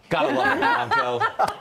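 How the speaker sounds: gotta love it, sung high and slow; high drawn-out delight. Acted. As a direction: stretch it out in a high squeal. Host savoring the Bronco line.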